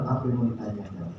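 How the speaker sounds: low, quick and dismissive; rude, curt. Retold or imitated. Rude salesman brushing off the boss, low and curt. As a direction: snap it off like being interrogated. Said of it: "terus dia bilang".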